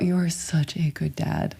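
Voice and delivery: hushed, sincere praise; real, tender near-murmur; heartfelt affirmation. Real, not acted. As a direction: say it softly so it lands. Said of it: "I want it to land on your body".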